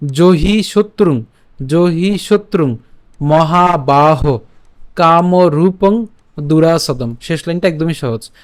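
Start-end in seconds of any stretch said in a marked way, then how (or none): 0.1-7.1 slow, drawn-out Sanskrit phrases; verse recitation. Shown as a demonstration. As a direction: stretch the long vowels for learners. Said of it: "এরপর".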